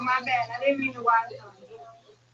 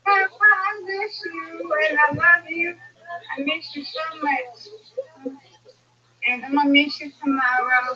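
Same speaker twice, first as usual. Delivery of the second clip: tender longing; 4 semitones higher, slower than usual. Real, not acted. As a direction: speak slowly and lovingly, as if he can hear you. Talking tenderly to her late papa.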